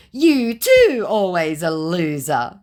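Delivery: mock scammer comeback. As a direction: whine it like the scammer. Voicing scammer.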